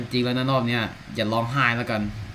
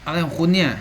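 startled; 5 semitones higher, 7 dB louder than usual. Real, not acted. Startled by a character in game.

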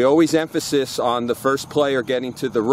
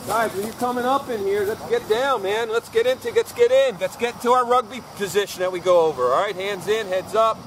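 raised coach call across the field; calling out to players; 7 semitones higher than usual. Real, not acted. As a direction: project it to the whole team.

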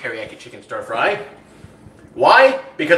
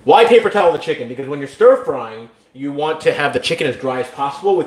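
louder, more present retake; closer to the mic; 3 dB louder than usual. Real, not acted. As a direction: restart it firmly, right up on the mic. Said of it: "I should probably step closer to the mic".

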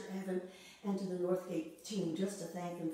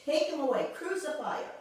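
louder, higher chant of a mob; the mob shouting at Pilate, loud and higher; crowd shout; 4 semitones higher, 5 dB louder than usual. Retold or imitated. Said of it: "But they shouted".

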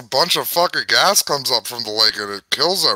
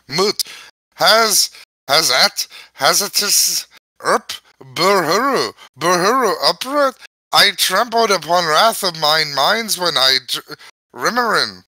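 halting read in a light Irish lilt; Irish accent. Pretend. The book forcing the reader into an Irish accent, halting. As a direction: stumble through it in a mild Irish accent. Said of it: "I'm aware Irish now".

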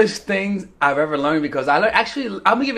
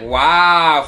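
flat wow; 3 semitones lower, 5 dB louder than usual. Retold or imitated. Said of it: "She'd be like".

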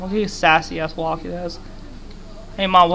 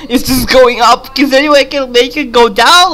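words spilling out through laughter; giggly higher panic; laughing disbelief; 4 semitones higher, 7 dB louder than usual. Real, not acted. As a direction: laugh while protesting the number. Laughing at rising stat.

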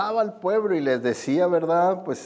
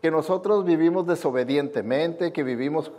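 sarcastic retort; 2 semitones higher than usual. Retold or imitated. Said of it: "sarcásticamente".

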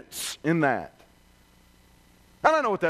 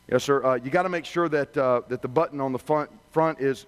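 lower, patient service voice; calm customer rep; 8 semitones lower than usual. Retold or imitated. Rep walks the angry customer through the checklist, calm and lower. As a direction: keep steady and polite with a difficult caller. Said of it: "The rep calmly replies".

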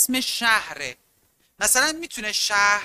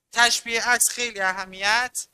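usual speaking voice

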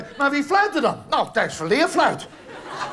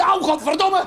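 pained curse; 5 semitones higher than usual. Acted. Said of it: "Dan roep je".

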